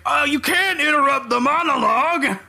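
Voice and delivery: high-pitched, hammed-up whine of protest; put-on scandalised complaint; mock indignant protest. Game villain objects to being cut off, mock indignant.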